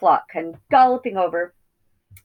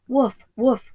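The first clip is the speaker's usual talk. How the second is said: high, confused woof from a sheep; dazed sheep barking; 8 semitones higher, 4 dB louder than usual. Acted. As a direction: sheep trying to bark, bewildered. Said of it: "cried the flock in dazed confusion".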